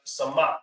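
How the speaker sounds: "samak" as suh-MAHK; pronounced "samak". Shown as a demonstration. Teacher gives the word to repeat, sounding out "samak". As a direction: model "samak" with an open second syllable. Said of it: "That's pronounced".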